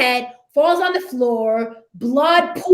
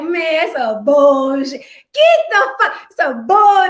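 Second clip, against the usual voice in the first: mock outrage; 4 semitones higher, 4 dB louder than usual. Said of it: "you're like".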